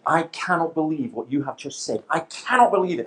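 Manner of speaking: mild mock yell, building on the repeat; retold outraged yell. Audience member yelling at the speaker, mildly imitated outrage. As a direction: imitate an outraged heckler, held back. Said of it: "he yelled at the back".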